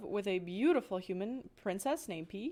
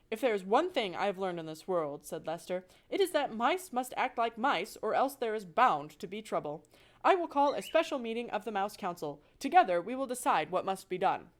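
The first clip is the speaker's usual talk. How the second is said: louder, grave and firm; stern father voice; 4 dB louder than usual. Acted. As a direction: declare it like a stern patriarch. Lester declares solemnly.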